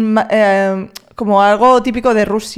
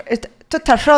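intento de acento cordobés; R cordobesa imitada; 3 semitones higher, faster than usual. Retold or imitated. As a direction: imita la R de Córdoba en "roto". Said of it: "decís las R's en Córdoba". (acento cordobés tentativo)

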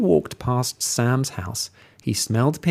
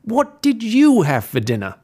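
sly wolf; 10 semitones higher, 4 dB louder than usual. Acted. Wolf questioning pig.

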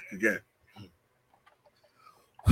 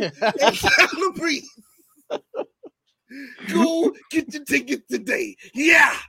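impersonating friend's promo. Retold or imitated. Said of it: "how you do my impersonation".

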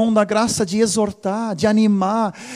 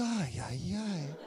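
sigh; 4 semitones lower, 18 dB quieter, slower than usual. Retold or imitated. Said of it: "Ele disse".

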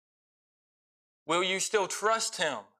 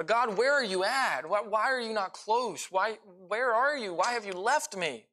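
a lifted, pleading cry to a God who seems absent; pleading prayer; 4 semitones higher than usual. Acted. Preacher voicing a believer's prayer in a dry season, lifted and pleading. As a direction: ask God where he went, hurt and searching.

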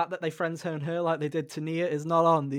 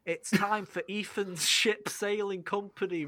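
slow, higher announcer intro; show host announcement; 5 semitones higher, slower than usual. Pretend. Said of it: "announces segment like a show host".

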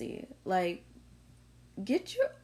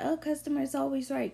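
higher, sing-song mock of a cliché; mocking people; 8 semitones higher than usual. Mocking people who defend customers, higher sing-song. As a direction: parrot them with a sneer. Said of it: "And people say".

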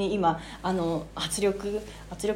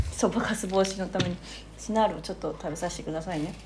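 talking while chewing tablets; crunching chips. Real, not acted. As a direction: crunch and chew between words. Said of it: "シナールを食べてます。". (ボリボリ噛みながら話す)

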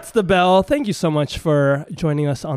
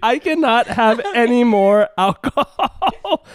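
slow, laughing tipsy voice; 7 semitones higher, 4 dB louder, slower than usual. Real, not acted. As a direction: talk like you've had a few too many. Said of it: "I'm drunk".

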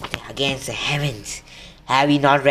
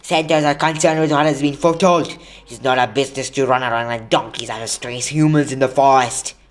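loud, raised-pitch indignant rebuke; angry; 3 semitones higher, 5 dB louder than usual. A narrator's reading. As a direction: throw it back in outraged disbelief. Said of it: "kicked his back legs in har-, anger".

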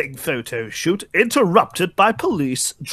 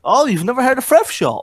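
higher, louder disbelief; surprised; 10 semitones higher, 4 dB louder than usual. Real, not acted. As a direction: ask in real surprise. Surprised question.

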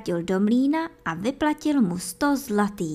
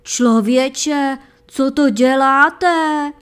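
loud, higher, slow astonished cry; miller crying out; 4 semitones higher, 8 dB louder, much slower than usual. A narrator's reading. Astonished miller cries out at the hunter, loud and higher. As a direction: blurt it out in amazement. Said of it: "vykřikl".

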